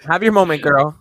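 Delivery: loud sassy drag diva line; sassy catchphrase. Pretend. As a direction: throw it out with attitude. Mocking catchphrase to Maddie.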